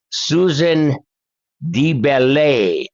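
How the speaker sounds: name said in a hammed-up French accent, slow on DeBelay; a self-conscious attempt at a French accent. Shown as a demonstration. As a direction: Susan DeBelay in a mock French accent, drawn out. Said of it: "the best French accent I can do".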